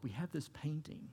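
hushed, breathy repeat of the line; a soft whispered echo of the phrase. Real, not acted. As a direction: whisper it like a secret.

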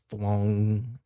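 drawn-out imitation of struck steel; resounding metallic thwong. Game master imitating a fist hitting the shield, resounding thwong. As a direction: draw out the clang like ringing metal. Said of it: "you hear a resounding".

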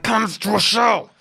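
high, drawn-out mock holler to the crowd; hammed-up begging call; mock promotional plea. Acted plea to potential fans.

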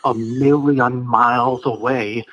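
lightly voiced chipper astronaut caller; a hint of a rambling old caller; Don Pettit impression. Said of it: "lumpy-headed Don called in again".

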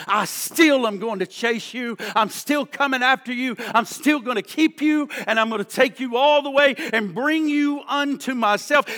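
swelling preacher's crescendo; building promise. Retold or imitated. God's promise builds to climax.

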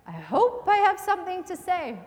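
high, loud nervous plea; anxious plea. Retold or imitated. Speaker praying before taking the stage, anxious. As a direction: blurt it up to God.

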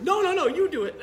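high, loud Chicago refusal with laughter; Chicago accent. Retold or imitated. Old man refuses the phone in a Chicago accent. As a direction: wave it off loudly in a Chicago accent. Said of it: "he's like".

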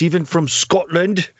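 lightly put-on Scottish accent; mock Scottish accent. American host teasing the Scottish co-host, mock Scottish accent. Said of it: "Why do Americans always do that?".

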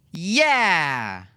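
put-on high, excited children's cheer; two little kids celebrating together. A narrator's reading. The children cheering their dad's promise, high and excited. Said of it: "The kids cheered in unison".

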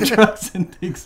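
high, slow, laughing London slang; mock London accent.

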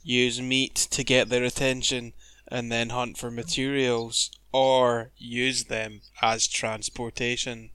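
measured, drawn-out announcer read. Pretend. Podcast host introducing a creature entry, announcer voice. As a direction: read it like a weary announcer with long pauses. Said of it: "my announcer voice".

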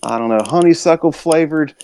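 lightly lampoon a folksy guest making demands; imitating Aaron Frederick. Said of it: "He's like".

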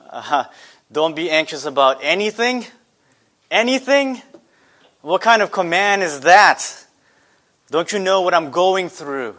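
disbelieving, rising on the second anything; mock outrage with a peak of disbelief; incredulous protest. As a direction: play the doubting listener pushing back at Paul. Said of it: "you might be thinking".

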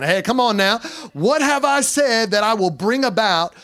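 a touch of playful New Jersey swagger; lightly mock tough Jersey bravado; New Jersey attitude. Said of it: "this attitude, like I'm from New Jersey".

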